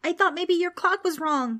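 put-on loud, high-pitched boyish excuse; shouting back. A narrator's reading. Preston answers the ghost, shouting back. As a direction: shout it defensively. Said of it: "Preston shouted back".

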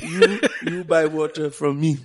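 put-on joking African accent, laughing through it; hammed-up African accent, mid-laugh; fake African accent. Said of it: "we just had a fake-ass African accent".

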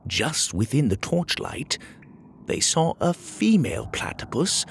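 storybook narrator building to a reveal; story narration. A narrator's reading. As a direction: let the discovery unfold in short phrases.

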